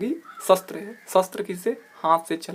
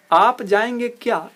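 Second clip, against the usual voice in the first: higher, louder and slow on आप जाएंगे क्या; wrong form read out; 5 semitones higher, 4 dB louder than usual. Shown as a demonstration. Teacher reads the wrong question, raised and slow. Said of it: "ये गलत है".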